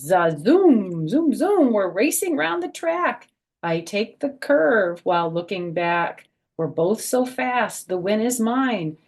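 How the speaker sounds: high, loud racing zooms; excited reading. A narrator's reading. Grandma reading racing page to kids, excited. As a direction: zoom it like a race car.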